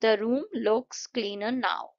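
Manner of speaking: very slow model sentence, tone falling on "now"; slow, deliberate declarative with a falling end; falling intonation. Shown as a demonstration. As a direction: spell it out slowly, let "now" drop. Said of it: "गिरती हुई होनी चाहिए".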